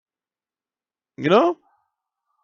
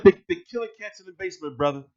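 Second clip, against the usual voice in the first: softer, faster mock of the guest; imitating his delivery; 3 semitones lower, 7 dB quieter, faster than usual. Copying how the guest told him, softer and quick. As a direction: rattle it off like he did. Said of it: "you see how he went like".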